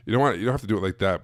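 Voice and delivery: ordinary talk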